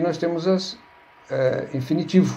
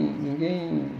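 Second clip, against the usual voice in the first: softer ninguém; 6 dB quieter than usual. Shown as a demonstration. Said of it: "todo mundo fala desse jeito".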